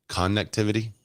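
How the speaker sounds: "connectivity" with a full CON at the front; hard CON. Shown as a demonstration. Streamer trying out the complained-of word, "connectivity" with hard CON. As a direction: say "connectivity" as CON-nectivity, questioning. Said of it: "A hard con".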